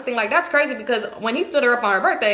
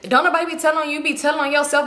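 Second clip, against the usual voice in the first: imitated higher-pitched retort; arguing; 4 semitones higher than usual. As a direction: act out her snappy comeback in a quarrel. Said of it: "they going back and forth arguing".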